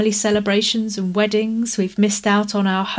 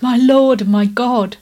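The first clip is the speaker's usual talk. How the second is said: louder joyful exclamation; exclaiming; 2 semitones higher, 5 dB louder than usual. Acted. Thomas seeing the risen Lord, crying out in awe. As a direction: burst out in awe and recognition. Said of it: "He just exclaimed".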